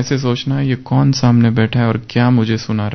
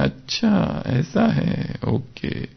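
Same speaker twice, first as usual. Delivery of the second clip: higher, wide-eyed ओहो and अच्छा; amazed realization; 7 semitones higher, 4 dB quieter, much slower than usual. Shown as a demonstration. Teacher showing students how to read in wonder, amazed. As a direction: sound as if it just dawned on you. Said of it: "कितना आश्चर्य से स्वयं को भरना है".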